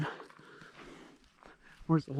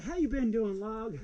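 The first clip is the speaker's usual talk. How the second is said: silly greeting; 5 semitones higher, slower than usual. Retold or imitated. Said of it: "I said".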